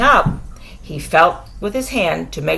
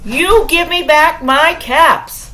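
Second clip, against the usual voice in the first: raised, scolding demand; peddler scolding; 6 semitones higher than usual. Acted. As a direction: demand the caps back sharply. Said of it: "he said".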